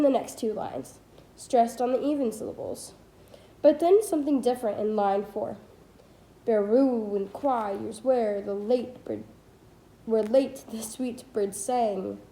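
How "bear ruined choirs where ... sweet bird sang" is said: slow, measured beats through "Bear ruined choirs", each stress set apart; hammered scansion. Shown as a demonstration. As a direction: scan it slowly, weighting "sweet bird sang" word by word. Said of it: "hammering effect of three consecutive stressed syllables".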